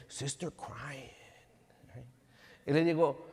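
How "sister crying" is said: soft, slow little-kid imitation; small, hushed mock child voice; toddler reporting. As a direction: report it like a two-year-old, drawn out.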